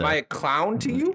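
Goodfellas tough-guy quote; a touch of gangster menace; Joe Pesci menace. Retold or imitated. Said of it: "his voice just keeps getting higher and more clownish".

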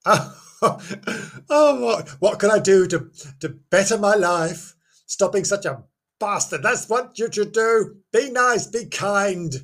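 high, flustered mock panic; panicked inner voice. Listener imagines hearing own name read, high mock panic. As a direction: fret aloud like someone who just heard their doom. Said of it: "You think to yourself".

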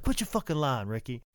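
mildly exasperated impression, tailing down; Bobby Eaton. Bobby tired of his partner's lying, exasperated. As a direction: lightly mimic a fed-up partner. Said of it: "Bobby's like".

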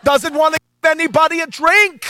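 very high, loud scolding mother voice; mother scolding her son at the wedding, high and loud; nagging Jewish mama. Retold or imitated. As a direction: nag your son like an overbearing Jewish mom. Jewish mom voiced in story.

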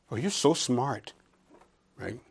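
slow, teasing "so smart"; mock sarcasm. Preacher paraphrasing Paul's jab at the Corinthians, teasing. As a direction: needle them with a sly jab. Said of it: "He's using biting sarcasm".

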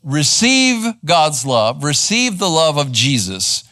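slow, measured preaching close; slow exhortation. Acted. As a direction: lay out the charge slowly to the congregation. Sermon closing exhortation.

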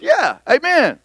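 a hint of an eager congregation; congregation amen. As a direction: call back like the crowd in church. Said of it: "that's where everybody goes".

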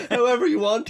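mildly mocking echo; mocking quote. Host mockingly quoting the cohost. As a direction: throw his words back at him. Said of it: "he said".

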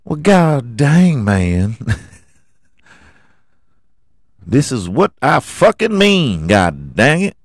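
hammed-up god dang; Baby Billy impression. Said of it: "talking like Baby Billy".

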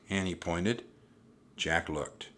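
usual speaking voice

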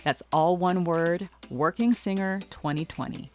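scripted, smoothly paced host endorsement; polished podcast commercial delivery; sponsor ad read. Acted. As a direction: read it like a personal product testimonial.

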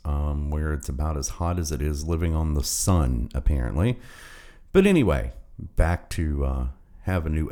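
echoey room sound; hallway echo. Real, not acted. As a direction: voice bouncing off bare walls. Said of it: "as you can tell by the weird echo that's going on".

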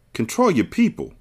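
firm, stern order; stern command. Acted. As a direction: tell him coldly who's boss. Monroe orders Fly.

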